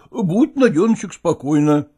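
hesitant reassurance. A narrator's reading. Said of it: "соврал Лагорский, замявшись".

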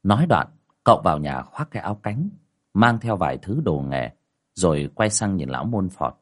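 measured storytelling voice over music; story narration. A narrator's reading. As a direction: tell the ghost tale steadily. Narration between quotes.

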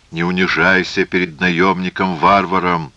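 firm, lightly pressed appeal; insistent urging. Acted. Phasael urges the priest to keep dignity, insistent. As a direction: press him not to grovel, understated. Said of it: "настаивал Фазаэль".

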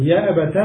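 "يا أبت" ending in -ta; fatha on the ta. Shown as a demonstration. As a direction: say "يا أبت" as ya abata. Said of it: "أو تفتحها".

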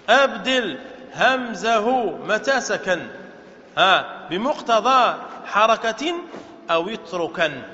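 slow, measured chant of the poem line; reciting verse. Shown as a demonstration. Teacher slowly chanting a verse of the grammar poem. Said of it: "قال".

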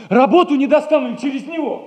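high, with a laugh in the voice; amused, hopeful chuckle. Acted. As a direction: laugh through the hopeful line.

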